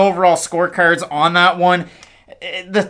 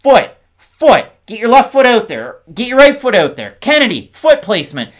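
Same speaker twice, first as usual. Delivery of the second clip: louder, higher cornerman shout; mock corner yell, raised and punchy; imitated coach yelling; 5 semitones higher, 5 dB louder than usual. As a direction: call out urgent orders like a coach yelling from the corner. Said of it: "you hear Saif Saud yelling".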